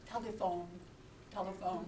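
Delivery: low, soft, careful single word; mock attempt to get through to a non-English speaker; talking to a foreigner. Asking deli man for phone, mock careful foreigner talk. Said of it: "when we think we're communicating with someone in a different language".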